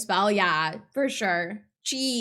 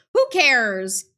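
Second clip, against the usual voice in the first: louder, brushing the doubt aside; dismissive outburst; 6 dB louder than usual. Acted. Narrator dropping worries about taking advantage, dismissive outburst. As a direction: cut yourself off and toss it away loudly.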